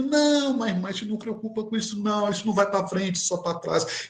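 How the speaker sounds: soft, quick soothing, starting high and settling; gentle, respectful reassurance. Retold or imitated. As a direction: reassure her without offending, in imitation. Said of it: "respeitando-a, sem ofendê-la". (tranquilizando com respeito, suavemente)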